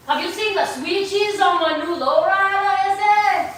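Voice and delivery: put-on Cholo accent with stretched endings. Shown as a demonstration. Showing viewers the Cholo voice, hammed-up Cholo accent. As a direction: greet a buddy in a playful Cholo accent. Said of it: "I can bust out my Cholo voice".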